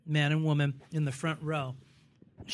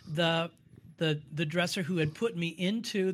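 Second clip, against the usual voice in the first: usual speaking voice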